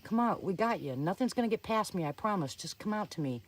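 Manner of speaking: energetic suspense story reading; dramatic first-person storytelling; story narration. Acted. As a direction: read a scary campfire story with urgency. Reads own suspense story aloud.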